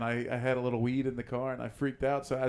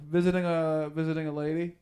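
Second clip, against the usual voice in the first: mildly nervous, stumbling answer, higher; 4 semitones higher than usual. Retold or imitated. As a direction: stumble through an excuse for the border guard. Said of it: "You nervous?".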